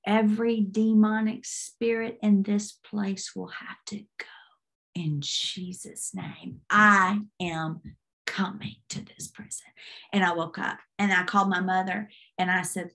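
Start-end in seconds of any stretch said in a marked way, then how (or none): 0.0-9.7 solemn command. Retold or imitated. Retold command to the demons.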